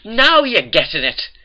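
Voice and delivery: high, loud, drawn-out exclamation; exclaiming. A narrator's reading. Bakers answer Twilight's reply, loud exclamation. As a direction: sing out your approval slowly and loudly.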